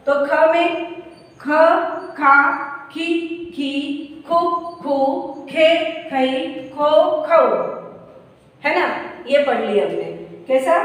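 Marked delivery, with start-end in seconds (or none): 1.4-7.5 barakhadi recitation. Shown as a demonstration. Teacher reciting the kh syllables for students to copy. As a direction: say each kh syllable apart and clearly. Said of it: "मैं भी पढ़ के बता रही हूँ".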